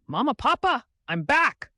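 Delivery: high, loud excited cry to her parents; joyful calling out. Acted. Girl returning home calls excitedly to her parents. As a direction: burst in calling them with joy. Bursts through the door home.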